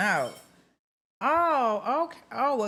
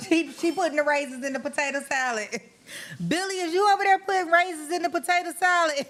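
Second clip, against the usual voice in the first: laughing mock accusation; 7 semitones higher, faster than usual. Real, not acted. Host teasing Billy about raisins in potato salad, fast laughing. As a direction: call him out while cracking up.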